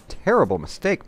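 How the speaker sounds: terrible rising high and loud, mock outrage; high exclaim. Player jeers at opponent's blunder, rising high exclaim.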